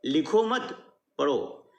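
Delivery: slow लिखो मत, break, then पढ़ो falling; group लिखो with मत, set पढ़ो apart slowly; pause after मत. Shown as a demonstration. Teacher showing that writing is forbidden, pause after मत. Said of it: "लिखने की मनाही कही गई है".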